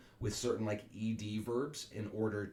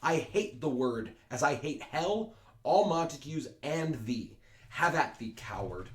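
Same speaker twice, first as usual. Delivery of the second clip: angry challenge; 3 semitones higher, 3 dB louder than usual. Acted. Teacher reads Tybalt's challenge.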